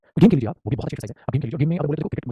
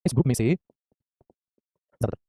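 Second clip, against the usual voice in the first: slow drill; 2 semitones lower, much slower than usual. Shown as a demonstration. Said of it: "इसका मतलब हो जाएगा".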